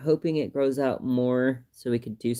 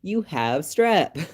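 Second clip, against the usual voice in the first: sheepish doctor apology; 4 semitones higher, slower than usual. Retold or imitated. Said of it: "he's like".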